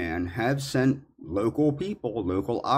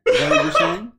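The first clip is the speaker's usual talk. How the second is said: laughing; 6 dB louder, faster than usual. Real, not acted. Incredulous retort, laughing.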